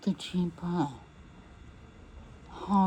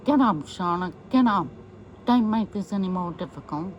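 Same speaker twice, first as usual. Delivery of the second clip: loud, impatient police order; retold order; 4 dB louder than usual. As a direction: bark it at her to get up. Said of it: "Meathead is saying".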